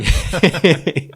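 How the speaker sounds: high, loud shouted call; retold yelling. Boyfriend running at his girlfriend, retold yelling. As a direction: yell after someone running away.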